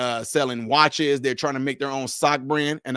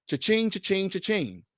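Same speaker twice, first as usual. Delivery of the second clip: singsong cha-ching, trailing softer; imitated cash register; 5 semitones higher, 4 dB quieter than usual. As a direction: mimic the till ringing up money. Imitates money rolling in.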